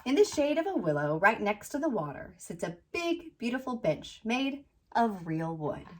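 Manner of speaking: picture-book read-aloud, landing gently on the rhymes; storybook narration. A narrator's reading. Author reading her children's book about a little tree, storybook narration. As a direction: read to children with lilting, measured phrasing.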